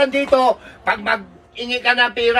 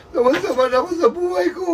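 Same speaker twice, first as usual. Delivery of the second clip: tearful lament; 4 semitones higher than usual. Acted. Parent laments life, crying.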